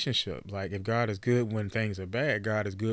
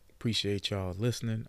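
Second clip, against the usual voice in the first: sultry voice. Pretend. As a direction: try a sultry voice on the thanks. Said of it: "I'm trying to get my, uh, sultry voice on".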